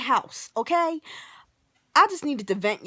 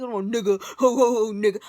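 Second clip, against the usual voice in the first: mocking loud phone chatter with dopey laughs; jackass on the phone; 3 semitones lower, 3 dB louder than usual. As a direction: imitate an idiot guffawing to his buddy. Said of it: "you sound like a fucking idiot".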